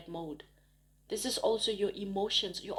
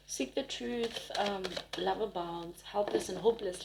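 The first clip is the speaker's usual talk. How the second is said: whisper; 3 dB quieter than usual. Real, not acted. Reading card words.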